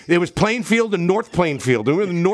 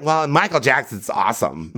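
lower, grudging voice of a kinda racist guy; mock racist white guy; 6 semitones lower than usual. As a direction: drop lower and play the reluctant fan. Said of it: "just being like".

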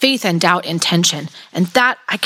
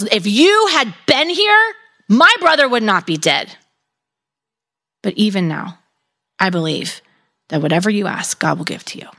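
grieving accusation. Shown as a demonstration. Martha speaks to Jesus at her brother's death, grieving and accusing. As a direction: start raw and pained, fade to a broken whisper of faith. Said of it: "Or you can read it as".

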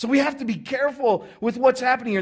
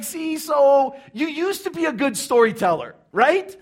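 louder, higher complaining rant; indignant listener; 5 semitones higher, 5 dB louder than usual. Acted. Crowd member scolding Jesus for messing up the story, indignant. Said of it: "He's like".

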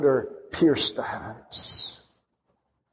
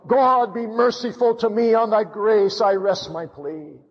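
preacher voicing Noah's earnest prayer, pitched up and pleading; 7 semitones higher than usual. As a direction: cry out to God for mercy. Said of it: "He was saying".

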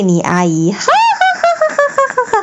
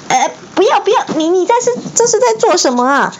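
alarmed hiss; 12 semitones higher, faster than usual. A narrator's reading. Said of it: "哈利嘘声道".

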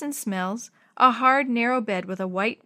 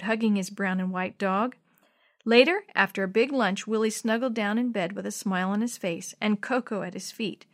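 ordinary delivery, nothing marked

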